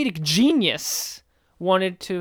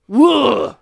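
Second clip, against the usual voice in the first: excited whoa; 4 semitones higher, 8 dB louder than usual. Pretend. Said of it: "And you know what I say".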